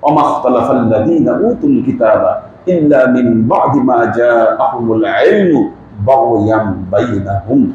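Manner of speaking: slow, measured chant of the verse; Quran recitation. Acted. Preacher quoting scripture, slow recitation.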